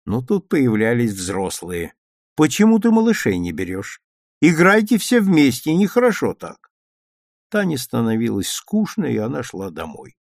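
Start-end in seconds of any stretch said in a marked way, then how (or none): 2.4-6.7 scolding grown-up. A narrator's reading. Adults scolding.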